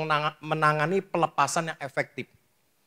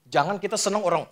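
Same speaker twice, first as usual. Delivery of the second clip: ordinary delivery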